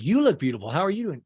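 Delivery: loud imitated return compliment; Dana. Dana returns Meredith's greeting, loud imitation. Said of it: "And Dana's like".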